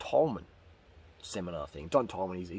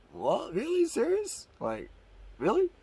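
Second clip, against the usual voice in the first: squeaky high disbelief, each word rising; high-pitched did-you-really; incredulous; 13 semitones higher, slower than usual. Retold or imitated. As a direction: act floored by the news. Stunned reaction to cooked potatoes.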